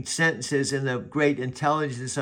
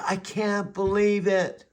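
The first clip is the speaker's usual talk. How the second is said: disbelief; 6 semitones higher, slower than usual. Retold or imitated. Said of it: "He said".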